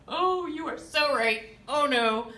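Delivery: hammed-up gushing colleagues; mock texts. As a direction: gush like colleagues conceding she was right. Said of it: "I got, like, ten text messages".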